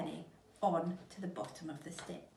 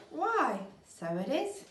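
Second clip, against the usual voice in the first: put-on high, loud surprised old woman; 8 semitones higher, 6 dB louder, slower than usual. Missus Twit startled by her stick. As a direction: gasp it out, caught off guard.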